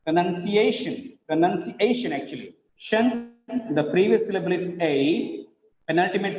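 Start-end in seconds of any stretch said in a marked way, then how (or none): 0.1-2.1 "Pronunciation" as pro-nun-ci-A-shun; correct pronunciation, "nun". Shown as a demonstration. Teacher repeating the right form, "Pronunciation" with "nun". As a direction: stress A and keep "nun" short in "Pronunciation". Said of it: "It is pronunciation".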